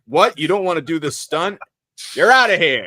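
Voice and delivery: hammed-up furious producer firing an actor; outraged producer shout. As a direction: bark him off the set like an angry boss. Producers voiced kicking actor off.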